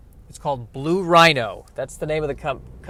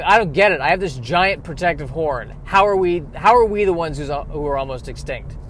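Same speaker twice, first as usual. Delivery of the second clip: rhino's lament. Pretend. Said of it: "Rhinoceros is sitting there going".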